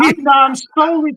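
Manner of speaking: loud, defensive and sassy; sassy loud protest. Real, not acted. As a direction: snap back with sass.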